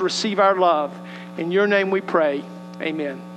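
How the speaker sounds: ordinary talk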